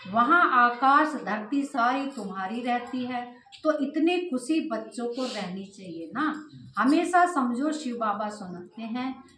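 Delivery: measured reading aloud; even, deliberate delivery of a sacred text; scripture reading. Acted. Teacher reads to the children about Shiv Baba, measured scripture reading.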